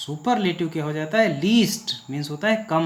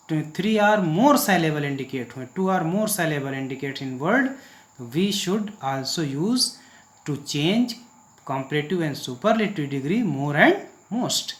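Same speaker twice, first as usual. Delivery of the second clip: slow dictation reading; much slower than usual. Shown as a demonstration. Reads English rule slowly.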